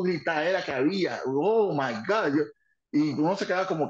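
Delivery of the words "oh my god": slow amazed. Retold or imitated. Dick Murray amazed.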